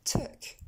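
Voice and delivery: "Took" with a short French eu-like vowel; pronunciation model. Shown as a demonstration. Teacher drilling the English sound for French learners, pronunciation model. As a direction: say "Took" crisply with a lax vowel, no ou. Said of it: "Encore une fois".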